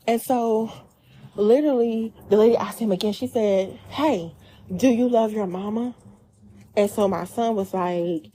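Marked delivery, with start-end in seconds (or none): 3.9-5.9 imitating a hostile, snarky stranger; pointed question with pitch lifted at the end. Lady asking the son again, hostile and snarky. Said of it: "hostilely asking it".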